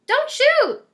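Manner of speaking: high, loud frightened yell. A narrator's reading. Cindy yelling at the godmother with the six-gun. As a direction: cry out to stop her. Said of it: "Cindy yelled".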